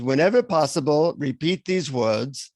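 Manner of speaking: lightly voiced guru with an Indian accent. Guru passing his secret mantra to a seeker, mild Indian accent. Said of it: "leans in to whisper it to me".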